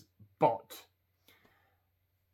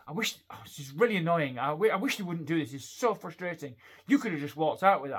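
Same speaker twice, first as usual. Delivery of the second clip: imitating an annoyed staff member, pitched higher; mildly acted exasperation, raised pitch; exasperated; 3 semitones higher, 6 dB louder than usual. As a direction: vent frustration in a retold grumble. Acts out exasperated customer services worker.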